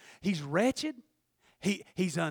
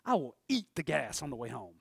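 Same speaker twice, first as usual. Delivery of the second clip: resigned murmur; 8 semitones lower, 8 dB quieter than usual. Retold or imitated. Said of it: "I said".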